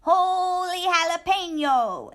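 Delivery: high, loud startled cry; surprised exclamation. A narrator's reading. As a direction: yelp it as he tumbles into the toys. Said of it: "exclaimed Skippy John Jones".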